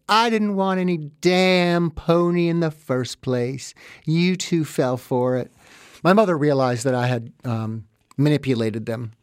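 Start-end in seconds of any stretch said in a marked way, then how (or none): 0.1-5.5 gloating taunt. Retold or imitated. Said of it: "laughing at them and being like".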